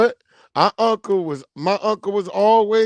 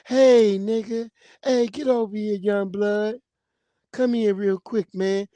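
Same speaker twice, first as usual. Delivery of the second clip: a singer. Retold or imitated. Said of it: "that singer's voice"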